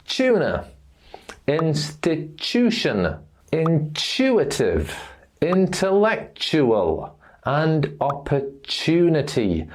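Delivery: T as CH in "tuna", "Institution", "intuitive", "intellectual", "opportunity"; T plus oo blended. Shown as a demonstration. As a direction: say "choona" for "tuna", likewise CH in "opportunity". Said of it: "T followed by oo".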